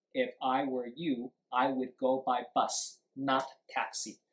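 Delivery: light stress on YOU, BUS and TAXI; sentence stress demo. Shown as a demonstration. English teacher asking where stress falls, stressing you, bus, taxi. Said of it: "Word stress放在哪里".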